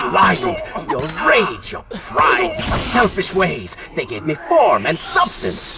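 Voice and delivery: forceful, emphatic villain tirade; vicious accusation. Acted. Dark rival blaming the prince's rage and pride, vicious accusation. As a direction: hammer out each fault.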